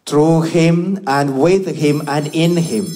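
solemn liturgical prayer voice. Acted. Priest prays the Mass aloud.

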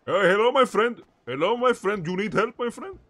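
put-on foreign doctor. Fake doctor calling out for patients, in a put-on accent. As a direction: hawk your services like an eager fake doctor.

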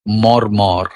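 মর্মর low and evenly drawn out; soft low glide. Shown as a demonstration. Reciter showing wind through leaves, soft gliding মর্মর. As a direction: let মর্মর roll gently in a low register, no stress. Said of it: "মৃদু করে কোমল পর্দা লাগিয়ে".

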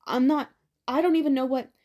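loud, choked mad scream; strangled scream. Acted. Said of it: "Ben screamed, a strangled, a strangled gurgle of madness".

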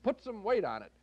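high imitation of yelling to dancers; mock disco yell. Film critic quotes Rudy Ray Moore egging on dancers, mock yelling. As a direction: call it out high, pitch falling away. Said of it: "yells in a microphone to the dancers".

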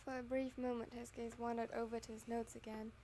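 steady storytelling read; story narration. Acted. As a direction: read it like an audiobook. Reads fanfic narration aloud.

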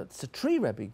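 a small pupil proudly naming the picture; child's voice. Acted. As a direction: pupil to his rebbe, eagerly naming the tree. Pupil answers his rebbe.

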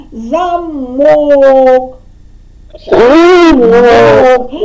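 замок with the last syllable, мок, stretched long and loud; stress on the O. Shown as a demonstration. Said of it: "ми голосом вдарили".

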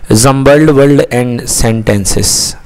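heading read out very slowly. Shown as a demonstration. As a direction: stretch each word of the title. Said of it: "teacher reads heading slowly".

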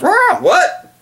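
sudden high, loud startled squawk; mock startled yelp. Mocking himself as calm, a high startled squawk. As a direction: jolt as if spooked out of nowhere. Mocks panic after "calm, cool.

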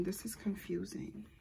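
slow, whispered confusion; whispered, puzzled confession. Acted. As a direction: let it fall to a slow whisper. Channeled Kim quote.

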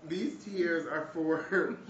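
high, wheezing laugh-talk; laughing to tears. Real, not acted. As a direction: barely get words out through laughter.

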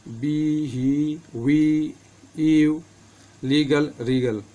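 बी, ही, वी, ईव, लीगल, रीगल with ee held long; long ee sound. Shown as a demonstration. Teacher reading examples of the big ee, long ee. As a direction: read each word separately, stretching the ee. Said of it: "इसका उच्चारण बड़ी ई की ध्वनि में".

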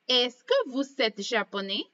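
rising tune at the end of japonais; teacher showing the intonation; question intonation. Shown as a demonstration. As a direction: model the question rise for the class. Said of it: "Esa es la entonación".

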